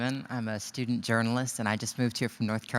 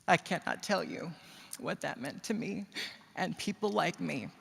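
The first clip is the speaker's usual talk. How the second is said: emotional; 7 semitones higher, 7 dB louder than usual. Real, not acted. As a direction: voice pitched high with feeling, swelling into loud thanks. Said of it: "I'm gonna get a little emotional here".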